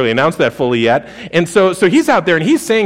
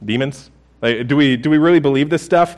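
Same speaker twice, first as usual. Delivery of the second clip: skeptical. Retold or imitated. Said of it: "our quick reaction".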